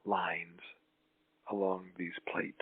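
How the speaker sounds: soft unvoiced whisper. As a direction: breathe the words out in a whisper. Meditation trailing into whisper.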